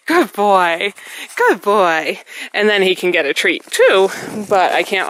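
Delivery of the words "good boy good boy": praising dog. Real, not acted. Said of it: "praise instantly with my voice".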